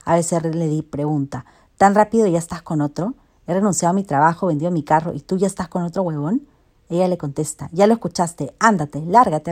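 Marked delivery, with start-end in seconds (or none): 1.8-6.5 loud, quickening accusation; storyteller voicing indignant reproach; acted indignation. Ex protests in acted quarrel. 7.7-9.5 loud, firm send-off; storyteller playing an exasperated dismissal; acted dismissal. She sends the ex away.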